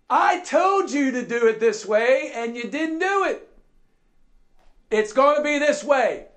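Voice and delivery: scolding boss. Acted. Preacher as boss on job site, insistent scolding. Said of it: "showed up on the job site and said".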